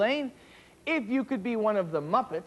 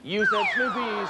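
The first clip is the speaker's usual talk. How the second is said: surprised; 3 dB louder than usual. Real, not acted. Host reacts to mismatch.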